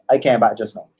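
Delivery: easy Caribbean lilt; relaxed Caribbean accent. Shown as a demonstration.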